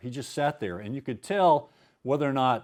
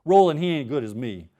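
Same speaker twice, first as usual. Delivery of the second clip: put-on Cajun accent. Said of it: "I get to do my Cajun accent".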